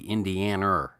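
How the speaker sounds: Boston North Shore "Indianer", an R added to the end of the word; mild Boston intrusive R on "Indianer"; Boston North Shore accent. Retold or imitated. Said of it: "if my wife was talking about Indiana".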